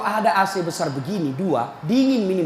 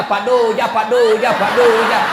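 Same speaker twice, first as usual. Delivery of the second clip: mock calling out; 6 dB louder than usual. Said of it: "Berteriak ni temannya".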